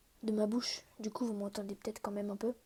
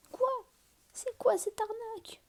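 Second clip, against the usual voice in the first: high, slow, indignant cry; outraged disbelief; 11 semitones higher than usual. Real, not acted. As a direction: stretch it out in shocked outrage. Outraged at a bad egg.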